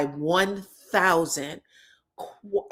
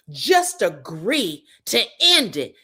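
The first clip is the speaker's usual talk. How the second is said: imitating Angel; 4 dB louder, slower than usual. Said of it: "this is Angel".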